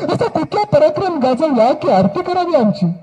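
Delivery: tearful mother. Acted. Grieving mother welcomes the king.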